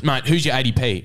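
mild retold telling-off; mock yelling teacher. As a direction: imitate a teacher challenging a student. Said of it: "he was, like, yelling".

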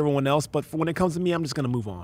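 mock reluctant groan into a brush-off; reluctant attitude. Intern begging off rooftop prayer, reluctant. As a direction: beg off as if prayer is not for you. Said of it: "having this attitude like".

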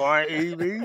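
put-on a lighter English accent on I E V. Repeating the English way of saying ITV, light English accent. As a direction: toss off I E V like an Englishman. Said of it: "Said like an Englishman".

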